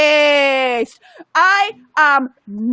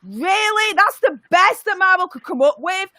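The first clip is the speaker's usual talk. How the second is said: full rant; 3 semitones higher than usual. Acted. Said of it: "I want full Emperor Palpatine here".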